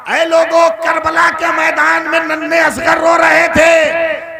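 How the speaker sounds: high, loud, impassioned majlis preaching; preaching at full force. Acted. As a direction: cry the martyrdom story out to the crowd. Impassioned Karbala narration.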